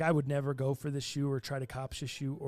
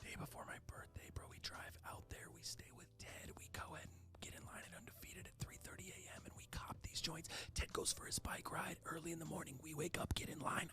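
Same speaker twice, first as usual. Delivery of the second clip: excited, hyped, hushed whisper, barely voiced; 2 semitones higher, 18 dB quieter than usual. Planning a birthday drive to Vegas with a friend, whispering. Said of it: "I don't know why I'm whispering".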